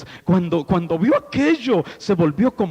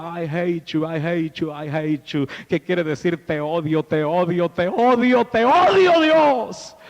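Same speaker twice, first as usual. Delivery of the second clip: building to rage. Retold or imitated. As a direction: begin contained, then explode at God. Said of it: "como loco le decía".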